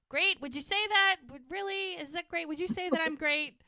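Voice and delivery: high-pitched, incredulous acted questioning; mock indignant disbelief. Charmaine in labor challenges the doctor's praise, indignantly incredulous.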